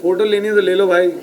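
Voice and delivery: calling out. Real, not acted. Actor inviting people to step in for photos, calling out. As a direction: call them over for a photo.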